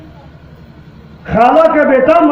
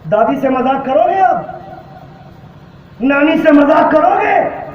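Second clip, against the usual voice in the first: sharp, raised scolding question; rebuke. Acted. Preacher scolding listeners, raised voice. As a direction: scold them for joking with grandma.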